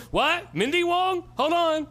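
very high, loud put-on voice of a confused worker; mock restaurant worker. Restaurant worker answering the stoned prank callers, shrill mock confusion. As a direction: squeak it out, baffled and hurried.

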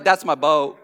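Forrest Gump impression. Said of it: "that's my Forrest Gump impression".

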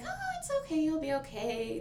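high-pitched cooing comfort, dropping as it goes; retold sing-song reassurance, starting very high; reassuring. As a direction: imitate nurses soothing a patient. Nurses soothe crying patient, retold.

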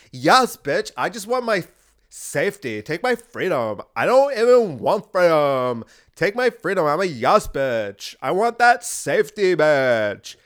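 a hint of the timid safety-begging guy again; mocking a compliant white man. Still mocking white men, a lighter camp whine. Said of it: "That's a white male".

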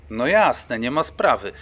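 eager to help, said out loud; zadowolony, głośniej; pleased. Acted. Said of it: "odparłem zadowolony".

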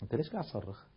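calm reply. Retold or imitated. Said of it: "فقلت له".

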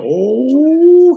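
long, high, drawn-out oh; imitating Brock's slow dawning shock; mock shocked oh. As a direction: play Brock stunned and stretch the oh out. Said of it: "Brock like".

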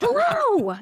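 very high, hammed-up greeting yell; mock yell. Wild woman in the elevator greeting her idol, mock yell. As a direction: holler it like a wild fan. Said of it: "just yelling at him".

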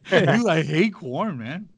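a hint of an action hero; Vin Diesel voice. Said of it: "stop talking in that Vin Diesel voice".

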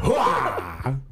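shouted army hooah, laughing. Pretend. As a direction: yell it like a grunt. Echoing the military cheer.

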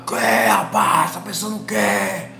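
slow, menacing growl of a furious man; hammed-up angry refusal; mock angry spirit. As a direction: play the spirit turned furious. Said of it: "virou estopor, meu irmão, de bravo".

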